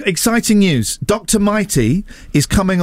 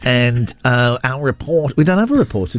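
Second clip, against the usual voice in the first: news reading voice. Shown as a demonstration. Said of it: "my news".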